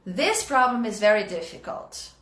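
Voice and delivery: "difficult" landing low at the end; falling tune. Shown as a demonstration. Teacher modelling the falling tune for the class. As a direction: let the sentence fall on "difficult". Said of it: "Pronúncia desce".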